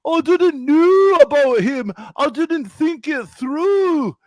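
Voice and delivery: high, slow mock-tearful pleading; mock crying. Imitating the Welsh woman crying to her chat, high mock sob. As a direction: ham up a weepy apology, pitched well up. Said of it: "she starts crying and saying".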